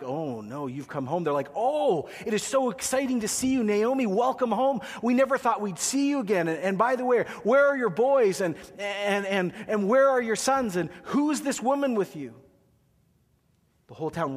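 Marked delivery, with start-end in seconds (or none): 0.0-1.2 low, soft, dismayed greeting; quiet, sinking welcome; gloomy oh no. Retold or imitated. 1.5-12.3 high, loud excited greeting; joyous villagers. Retold or imitated. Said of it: "this is joyous, this is shouting, this is happy, this is animated".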